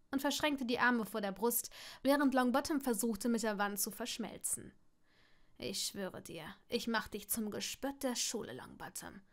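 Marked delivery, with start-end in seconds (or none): 5.6-9.2 low, softer menacing vow; quiet threat. Acted. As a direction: threaten him softly. Draco threatens Neville.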